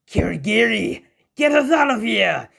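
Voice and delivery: high, loud call for a getaway; mock villain shouting retreat; urgent call. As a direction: yell for the escape portal in a hurry.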